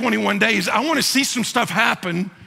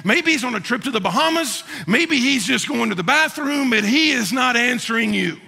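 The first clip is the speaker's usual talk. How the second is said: higher, sarcastic mock of a silent god; mocking taunt; 4 semitones higher than usual. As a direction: tease the false prophets, pitched up. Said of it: "starts to mock the false prophet".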